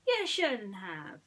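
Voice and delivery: a tiny mouse drawing out his thanks; Timothy, touched. Acted.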